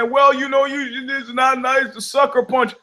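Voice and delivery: high mock-prissy voice; mocking whiny critic. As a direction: mimic a prim scold. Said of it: "People say".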